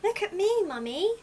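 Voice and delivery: high, bright-eyed chick calling out; excited little owlet showing off. Acted. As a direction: pitch way up like an eager baby owl. Little Owl voiced by narrator.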